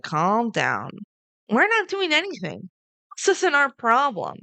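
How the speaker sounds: mock quote. Nick quoted in recap.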